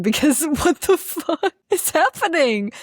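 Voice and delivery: high, slow exasperated cry; laughing, high-pitched exasperation; exasperated outburst. Real, not acted. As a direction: draw it out high in disbelief. Exasperated outburst about online attacks.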